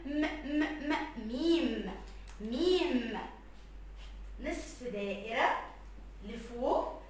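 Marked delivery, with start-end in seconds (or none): 0.1-2.0 م as separate hummed sounds, then ميم drawn out; letter sound demo. Shown as a demonstration. Teacher spelling لحم for pupils, sounding out م. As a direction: sound out م in beats, then name it slowly.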